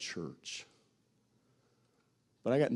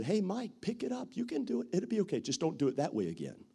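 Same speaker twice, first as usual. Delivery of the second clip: higher, gently encouraging; encouraging mentor; 3 semitones higher than usual. Retold or imitated. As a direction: lift up a young preacher. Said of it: "came along and said".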